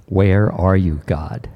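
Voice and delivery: holding back emotion while asking God; getting emotional. Real, not acted. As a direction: let the voice drop away on God. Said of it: "Sorry, I'm getting emotional".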